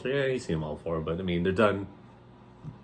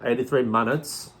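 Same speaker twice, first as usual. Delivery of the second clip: a light, put-on Australian accent; bad Australian accent; 3 semitones higher than usual. Host jokingly tagging the year with a weak Australian accent. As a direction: toss off a hint of Australian. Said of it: "that's a terrible accent".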